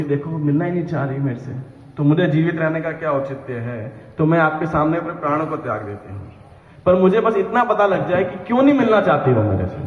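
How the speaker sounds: lightly voiced young woman, quick and pleading; a hint of a girl's plaintive voice, rising at the end; young woman's voice. Krishna disguised as a girl pleading with Jatila, lightly voiced young woman. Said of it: "Krishna एकदम युवती के आवाज के अंदर".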